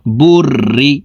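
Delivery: "বুর রি" with the র held as a doubled trill. Shown as a demonstration. Teacher showing tashdid on র, "বুর রি" with doubled r. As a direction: say "বুর রি", rolling the r across both syllables. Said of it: "এই রটি দুইবার উচ্চারণ করে পড়ব".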